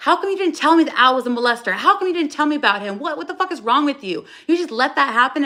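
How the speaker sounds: imitating Heidi's rapid phone rant, not full volume; retold yelling. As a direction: rattle off her angry phone rant, half-acted. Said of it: "when Heidi was yelling at my mom on the phone".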